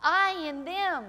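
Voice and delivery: slow, drawn-out I in them, each word weighed; slow repetition. Shown as a demonstration. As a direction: let I in them sink in slowly. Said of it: "He said it over and over again".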